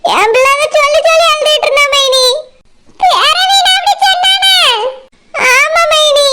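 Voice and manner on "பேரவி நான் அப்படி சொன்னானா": higher, half-shouted shock; aunt reacting to son-in-law's cruelty, shocked outcry; outraged disbelief. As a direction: hurl it out, scandalised.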